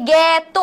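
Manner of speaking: জ্ঞাত drawn out as "gyæ-to"; syllable pronunciation. Shown as a demonstration. Teacher explaining how it is pronounced, জ্ঞাত as "gyæ-to". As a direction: say জ্ঞাত with a long open "gyæ". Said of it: "এটার উচ্চারণ হচ্ছে".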